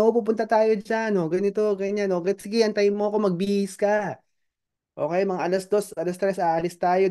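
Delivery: high, breezy promise of a lying dad; mock promising father. Father promising his child an outing, high and breezy. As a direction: play the father who easily promises an outing.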